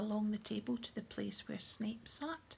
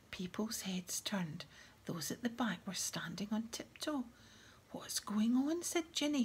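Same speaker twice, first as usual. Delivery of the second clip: whispered story reading. Acted.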